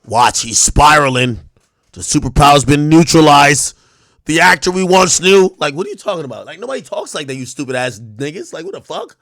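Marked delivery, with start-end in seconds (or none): 0.0-5.5 a lightly hammed-up lyric reading; mocking fan lyrics. Streamer mocks fans reciting lyrics, loud dramatic. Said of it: "These niggas talking a rapper's lyrics".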